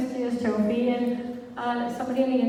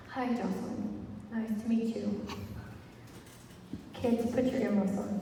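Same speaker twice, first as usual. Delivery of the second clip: hushed aside; 2 semitones lower, 9 dB quieter than usual. Retold or imitated. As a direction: lean in and say it softly, just for her. Woman leans in to confide.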